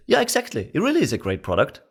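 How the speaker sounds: bright, quick agreement; match their energy and agree fast; matching enthusiasm. Shown as a demonstration. Salesman matching a prospect's enthusiasm. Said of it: "You're going to say".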